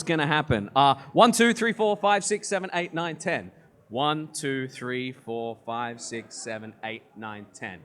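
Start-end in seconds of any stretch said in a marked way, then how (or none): 3.9-7.8 fading count. Real, not acted. Counting that fades away.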